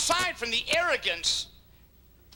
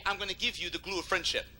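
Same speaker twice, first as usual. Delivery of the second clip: softer, fast earnest promise; quiet vow; 2 semitones lower, 6 dB quieter, faster than usual. Acted. Preacher voicing a friend's promise, softly. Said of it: "then you say".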